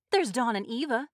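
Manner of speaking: high, loud objection; yelling. A narrator's reading. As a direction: yell it out in protest. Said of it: "Missus Hutchinson yelled".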